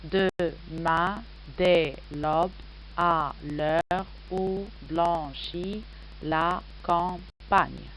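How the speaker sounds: "Demain, dès l'aube" onward slowly split into separate syllables, each held. Shown as a demonstration. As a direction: count out "à l'heure où blanchit la campagne" syllable by syllable. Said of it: "je l'ai réparti en douze syllabes".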